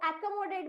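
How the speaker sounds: accommodate read with an "ae" at the start; beginner's pronunciation. Retold or imitated. Teacher allows the early learner's reading, beginner's pronunciation. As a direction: say accommodate as "ae-ko-mo-date". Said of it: "शुरुआती दिनों में अगर वो".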